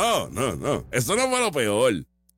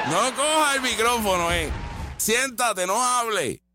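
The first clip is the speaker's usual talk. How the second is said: higher, bossy scolding of the woman; mock stern orders; 5 semitones higher than usual. Mocking the handlers who silenced her, higher and bossy. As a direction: boss her around like a handler.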